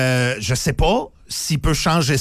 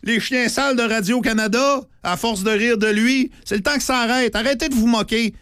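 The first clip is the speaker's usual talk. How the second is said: indignation exagérée, voix aiguë et forte; fausse indignation; 5 semitones higher than usual. Pretend. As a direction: crie son outrage pour la forme. Fausse indignation après s'être moqué. (colère jouée et ironique)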